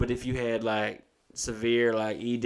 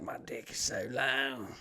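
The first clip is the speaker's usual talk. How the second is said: slow, softer, lightly voiced old man; old man bragging; 7 dB quieter than usual. Old Emmett bragging to his coworker, slow and soft. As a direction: savour the brag slowly, half to yourself. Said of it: "And he's like".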